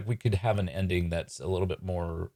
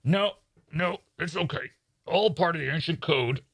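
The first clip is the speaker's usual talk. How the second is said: raised, theatrical magician voice; magician in character; 9 semitones higher than usual. Acted. Magician reassuring guests about the ancient code, theatrical. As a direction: play the reassuring stage magician, pitched up.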